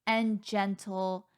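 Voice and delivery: slow, word by word with long pauses; reluctant, halting argument. Pretend. Sister forced to argue an assigned side, halting delivery. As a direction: grope slowly for each word.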